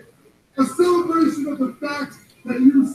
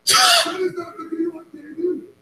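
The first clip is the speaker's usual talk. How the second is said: angry shout; 5 semitones higher than usual. Acted. Wrestler angry at wrong video.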